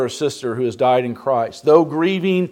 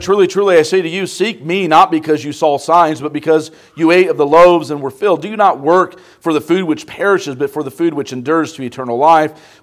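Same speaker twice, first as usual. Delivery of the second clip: louder, declaiming scripture reading; 4 dB louder than usual. Acted. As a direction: proclaim the verses to the congregation. Reads Bible passage aloud.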